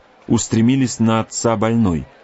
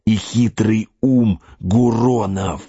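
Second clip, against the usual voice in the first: slow scornful warrior; slower than usual. Acted. Magua's scornful answer.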